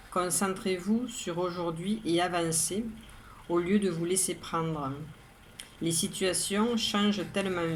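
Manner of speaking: measured, even poem reading with pauses between lines; poem recitation. Acted. Poet reads today's poem to listeners, measured recitation. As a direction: recite it evenly, line by line, each phrase set apart.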